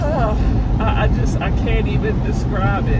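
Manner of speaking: overwhelmed, tearful awe with long pauses; emotional. Real, not acted. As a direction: struggle to get the words out through feeling. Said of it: "I'm so emotional".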